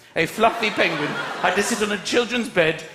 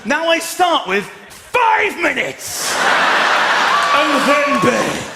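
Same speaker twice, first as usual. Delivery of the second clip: mock angry dad; 5 semitones higher, much slower than usual. Father at kids' bedtime, hammed-up slow angry warning. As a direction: stretch each word like a fed-up father. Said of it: "I don't build to anger anymore".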